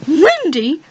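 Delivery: "Wendy?" asked with a high, rising, doubtful lilt; puzzled question. Real, not acted. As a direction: question the name "Wendy?" as if unsure it's right. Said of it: "Okay, sorry".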